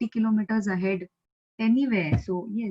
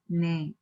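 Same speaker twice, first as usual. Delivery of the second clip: "ne" dropping low and softer; falling accent; 3 semitones lower, 4 dB quieter than usual. Shown as a demonstration. Teacher repeating the agreement particle, falling on ne. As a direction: let "ne" go down in pitch. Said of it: "It is going down".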